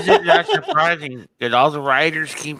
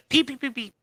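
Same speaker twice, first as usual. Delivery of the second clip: high squeaky repeat; 11 semitones higher, 5 dB quieter, faster than usual. Pretend. Mocking PPP letters.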